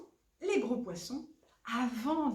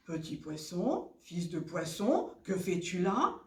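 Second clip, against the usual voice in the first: crow; 3 semitones lower than usual. Acted. Crow hails the little fish.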